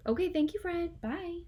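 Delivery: loud, high, hammed-up sign-off; loud goodbye. Teacher hangs up on Fred and jokes to class, loud and high. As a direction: play up the goodbye and joke loudly. Ending pretend call, joking.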